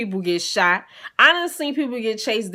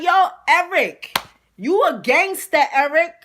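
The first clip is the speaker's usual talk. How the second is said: high, loud taunting call to Eric; mocking loud hype; 9 semitones higher, 5 dB louder than usual. Teller taunting Eric loudly on the train, high and mocking. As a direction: hype him up to shame him in front of everyone. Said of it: "So I'm like".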